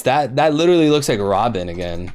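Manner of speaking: ordinary delivery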